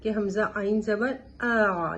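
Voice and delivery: slow, spelled-out ہمزہ عین زبر آ with a throaty آ; slow recitation demo. Shown as a demonstration. Teacher spelling the letter ain slowly for students. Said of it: "عین کے مخرج کو سمجھیں".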